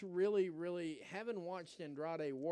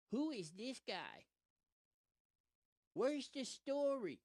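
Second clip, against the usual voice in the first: confused fan; 7 semitones higher, slower than usual. Retold or imitated. Quoting fans on Twitter.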